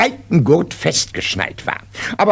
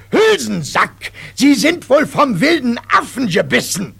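drill sergeant; 9 semitones higher than usual. Acted. Sergeant scolds recruit.

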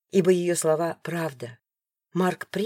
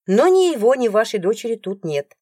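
firm insistence; 4 semitones higher, 6 dB louder than usual. Acted. Heroine firmly insists.

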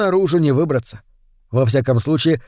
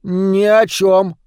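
поспешно; 5 semitones higher, much slower than usual. A narrator's reading. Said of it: "поспешно ответил Шалопута".

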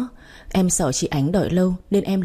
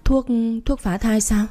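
stammered, higher, shaken question; stammering in shock; 5 semitones higher than usual. Acted. Mother-in-law stammers at the healer's news, stunned and trembling. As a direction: stumble over the first word in disbelief. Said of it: "Bà ấp úng hỏi lại".

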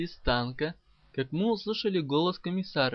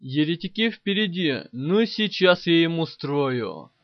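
loud, reckless battle excitement; eager yell, slowing into the threat; gleeful shouting; 8 dB louder than usual. A narrator's reading. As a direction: shout it like a crazed driver relishing the fight. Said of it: "Азартно закричал наш полоумный водитель".

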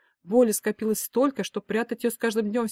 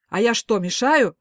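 loud offended question; indignant; 3 semitones higher, 7 dB louder, slower than usual. A narrator's reading. Father offended at being sent away, indignant. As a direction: act wounded and outraged. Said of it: "возмутился папа".

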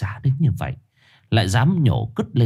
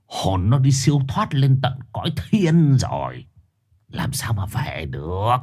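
dismissive shaman; 2 semitones lower than usual. Acted. Shaman brushing off Sinh, scornful. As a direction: wave away the boy's doubt.

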